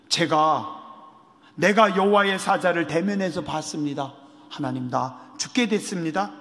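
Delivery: frightened. Acted. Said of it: "기드온이 깜짝 놀라서".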